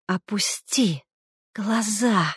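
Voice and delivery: hissed, voiceless whisper. A narrator's reading. Madwoman hissing at her brother across the table, whispered. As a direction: hiss the command through the teeth. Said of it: "прошипела она".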